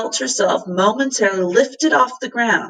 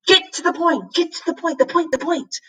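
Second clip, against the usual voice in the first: high squawking bird, repeating itself; bird's shriek; 9 semitones higher than usual. A narrator's reading. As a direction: keep screeching the warning like a bird.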